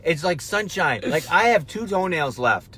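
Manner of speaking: complaining in self-mocking outrage; worked-up rant. Real, not acted.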